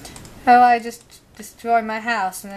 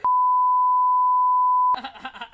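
laughing. Real, not acted. Player laughs during game.

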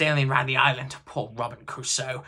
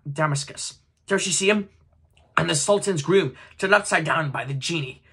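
put-on higher, louder, breathless childlike glee; between laughing and crying; 3 semitones higher, 5 dB louder than usual. A narrator's reading. Scrooge reliving his boyhood stories, half laughing half crying. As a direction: gush like an old man turned boy again. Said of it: "in a most extraordinary voice, between laughing and crying".

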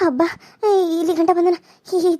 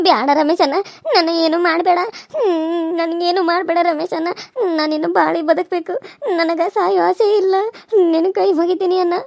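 tearful pleading. Acted. Girl begs attacker for life.

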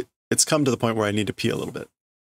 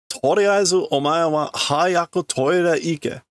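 bossy order; 7 semitones higher, slower than usual. Acted. Telling her to go to the toilet, scolding. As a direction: draw out the order impatiently.

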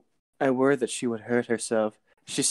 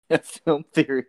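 MatPat catchphrase; 3 semitones higher, 4 dB louder than usual. Retold or imitated. MatPat catchphrase echoed, laughing.

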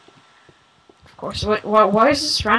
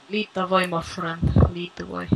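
lightly put-on Russian accent; 2 semitones lower, 5 dB quieter than usual. Player inviting a friend to lead, Russian accent. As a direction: say it with a Russian lilt, trailing softer. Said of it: "You sound like a Russian".

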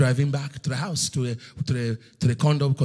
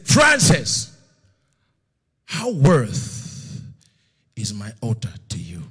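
God calling out; 3 semitones lower, 4 dB louder, slower than usual. Retold or imitated. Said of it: "And then he said".

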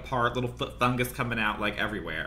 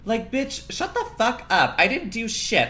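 higher, louder mock snap at a fan; mock outrage; 10 semitones higher, 3 dB louder than usual. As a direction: bite back at the comment, half joking. Snapping back at a comment.

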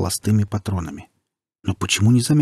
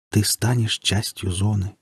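soft velvety rustle; slower than usual. Acted. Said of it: "ласково прошелестел бархатистый голос".

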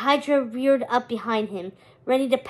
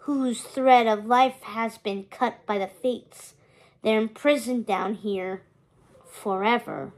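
rasped. Acted. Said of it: "the skeleton rasped".

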